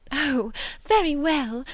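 high, loud, drawn-out chirrup; exclaimed. A narrator's reading. Miss Bates welcoming the game, high exclamation. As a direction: exclaim it in relieved delight. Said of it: "exclaimed Miss Bates".

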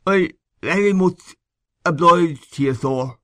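high, thick-tongued, broken thanks; thick speech. A narrator's reading. Injured man thanking the young man, speaking thickly. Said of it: "He spoke very thickly".

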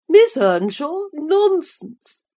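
high, loud astonished cry; shocked cry. A narrator's reading. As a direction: cry out in disbelief. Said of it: "cried the dame".

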